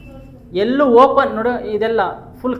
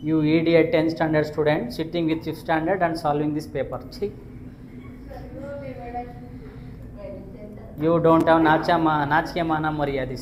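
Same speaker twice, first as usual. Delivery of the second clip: slow mock shaming; 4 semitones lower, 7 dB quieter, much slower than usual. Real, not acted. Mock shaming older student.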